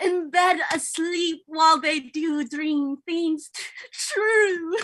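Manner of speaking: loud, fake, put-on posh British accent. Reading a play scene aloud with others, in a put-on accent. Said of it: "I'm doing an accent".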